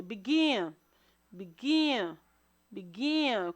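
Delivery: "begin" repeated with the stress on its last syllable, -gin; stress on second syllable. Shown as a demonstration. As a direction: lean on the "gin" of "begin", falling each time. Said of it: "Qual é a sílaba mais forte?". ("begin" com ênfase na última sílaba)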